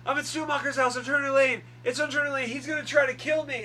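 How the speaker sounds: high, loud mock-frantic cry for help; retold panicked plea. Acting out Sidney's panicked radio call.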